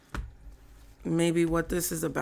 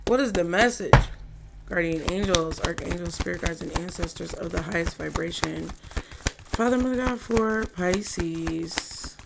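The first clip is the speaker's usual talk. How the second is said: invocation. Acted. Calls on spirit guides in prayer.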